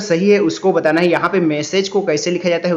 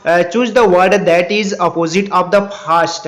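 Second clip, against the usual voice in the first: slow read-aloud; much slower than usual. Shown as a demonstration. Reads question.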